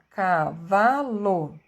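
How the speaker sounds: Cavalo drawn out very slowly, syllable by syllable. Shown as a demonstration. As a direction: count the syllables out loud as you say it. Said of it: "Três sílabas".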